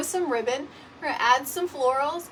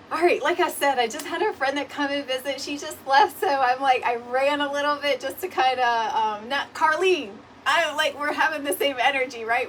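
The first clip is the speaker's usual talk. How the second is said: breathless and louder after running; out of breath; 6 dB louder than usual. Real, not acted. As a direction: still puffing from running to the door. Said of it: "I know I'm running, like, out of breath".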